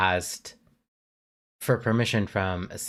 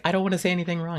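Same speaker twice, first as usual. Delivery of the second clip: timid voice; 9 semitones higher, much faster than usual. Retold or imitated. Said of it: "you're like".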